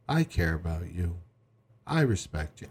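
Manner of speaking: dutiful recital, no feeling; emotionless. Shown as a demonstration. Wife reassuring her husband by rote, emotionless. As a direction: recite it without any emotion. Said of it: "in an emotionless voice".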